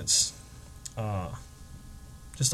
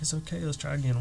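much softer, gentle encouragement; reassuring; 3 semitones higher, 5 dB quieter than usual. Retold or imitated. Comforting a disappointed woman, soft and gentle. Comforting her after failure.

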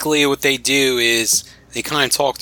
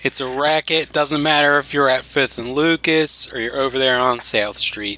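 put-on Philadelphia accent. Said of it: "I just did one for you".

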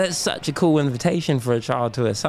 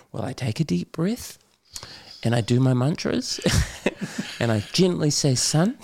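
mock serene dad; 4 semitones higher than usual. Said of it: "I'll be full of shit".

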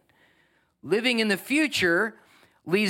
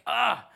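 short raised "ah"; exasperated "ah"; 5 semitones higher than usual. Acted. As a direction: let out a pitched-up exclamation. Voices how achievers react.

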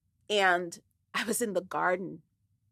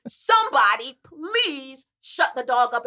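annoyed; 4 semitones higher, 5 dB louder than usual. Retold or imitated. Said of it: "And I was like".

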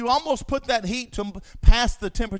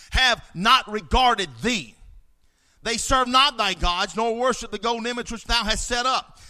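sarcasm. Acted. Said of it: "you can almost hear that sarcasm in their voice".

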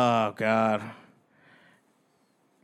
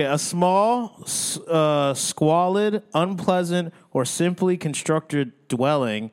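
read out loud; 3 semitones higher, slower than usual. Real, not acted. Asked by his friend to read the definition aloud, slow clear reading. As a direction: read it out for your friend, deliberately. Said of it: "No, no, read it out".

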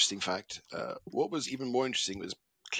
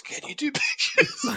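put-on old-fashioned voice; 13 semitones higher, slower than usual. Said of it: "That's brilliant".

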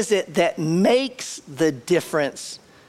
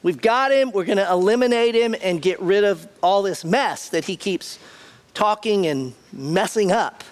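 higher, gleeful triumph; gloating; 3 semitones higher than usual. Retold or imitated. Satan's world celebrating the capture, gleeful gloat. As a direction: crow over the victory. So they're, they're rejoicing.

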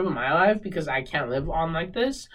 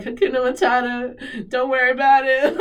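a bright, higher, louder "Hakuna Matata"; louder retold cheer; mock carefree; 8 semitones higher, 6 dB louder than usual. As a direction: toss it off like a carefree chant. Quoting own carefree self-talk.

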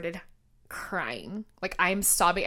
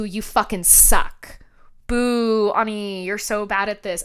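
harsh inner voice; slower than usual. Retold or imitated. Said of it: "my mind went to".

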